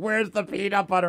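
high, weepy, tearful, sobbing crying voice. Retelling how she cried after dropping a jar: imitating someone crying.

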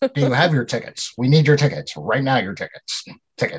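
awkward, strange movie-actor style line reading. Re-enacting a line from a movie the speaker rewound, impersonating a movie character. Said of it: "That's good impersonation".

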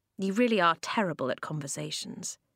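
plain

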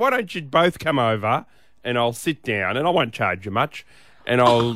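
ordinary talk

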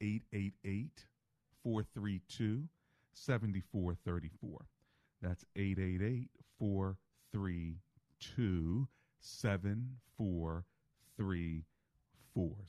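deliberate, slow, spaced-out digits. Giving a phone number to listeners who may be driving, slow and careful. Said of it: "so I slowed it down".

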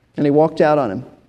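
usual speaking voice

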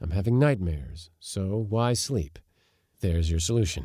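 usual speaking voice

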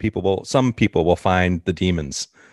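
usual speaking voice

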